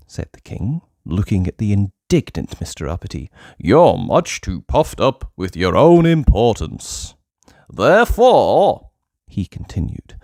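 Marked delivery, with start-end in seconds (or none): 3.6-7.1 slow, lordly king voice; stern goblin king. Acted. King of the Goblins rebuking Uppity, slow and lordly. 7.7-8.9 louder, higher, slow; royal pronouncement. Acted. Goblin king announcing the punishment, louder and slow.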